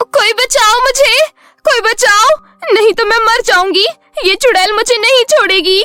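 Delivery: very high, shrieking, terrified scream. Voicing a daughter attacked by a witch at night, screaming for help in terror. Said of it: "बेटी की चीख सुनकर".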